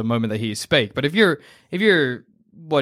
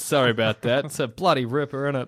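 mildly hammed-up casual Australian, lower pitched; laid-back Aussie; 3 semitones lower than usual. Imagined doctor breaking news to patient, laid-back Australian. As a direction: shrug off bad news in broad Aussie. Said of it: "the Aussies are a laid-back people".

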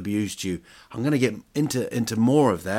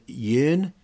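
yearn said as a puzzled question, rising; 6 semitones higher, 5 dB louder than usual. Shown as a demonstration. Vlogger puzzling over the word, says yearn as a question. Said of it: "I don't know what yearn is".

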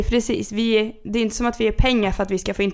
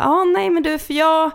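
lightly mocked caller, pitched up; imitated caller; 3 semitones higher, much slower than usual. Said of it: "så säger han då så här".

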